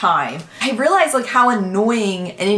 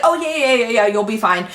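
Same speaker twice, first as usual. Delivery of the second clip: imitated high-strung nurse; 3 semitones higher than usual. Nurse reassuring patient after freaking out, mock flustered. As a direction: rattle off yeahs like a flustered nurse. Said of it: "very high strung".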